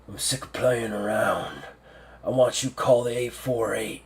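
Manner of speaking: lightly voiced hard-bitten general; a touch of weary, determined commander; stoic old general. General gives orders.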